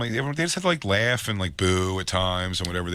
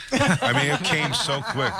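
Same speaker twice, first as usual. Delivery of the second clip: words squeezed out between real laughs; can't stop laughing as you say it; breaking up mid-sentence; laughing through it; 7 semitones higher, slower than usual. Real, not acted. Laughing at the kid's quick answer.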